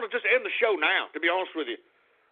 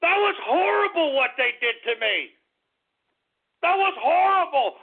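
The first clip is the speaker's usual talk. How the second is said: hammed-up whining; whiny protest; 6 semitones higher than usual. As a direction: plead it, hurt and mocked. Whining to co-host.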